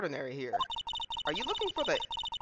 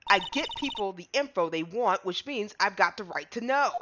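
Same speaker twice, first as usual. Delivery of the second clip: put-on southern accent. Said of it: "horrible country accent".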